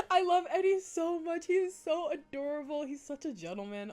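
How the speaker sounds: high-pitched adoring squeal; real giddy, high gushing; gushing fangirl. Real, not acted. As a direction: gush way up high, smitten. Gushing over a favourite character.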